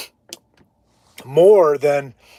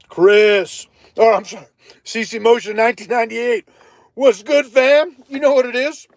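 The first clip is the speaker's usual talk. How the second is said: hyped vlogger intro; 6 semitones higher than usual. Pretend. Vlog intro catchphrase greeting voice.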